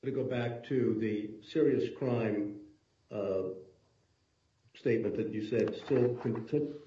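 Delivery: broken-up audio, gaps between words; patchy call line that keeps dropping; choppy cut off endings. Real, not acted. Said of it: "you're cutting out again".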